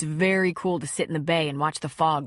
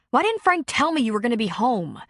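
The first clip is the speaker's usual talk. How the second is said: angry; 5 semitones higher, 3 dB louder than usual. Acted. Angry accusation.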